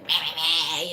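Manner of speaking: whiny imitated stomach grumble; growling stomach noise. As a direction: imitate a complaining empty stomach. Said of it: "my stomach was like".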